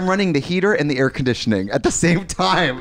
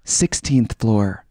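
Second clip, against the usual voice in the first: slow robotic floor call; elevator voice; 3 semitones lower, much slower than usual. Retold or imitated. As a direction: drag it out like a lift. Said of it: "an elevator".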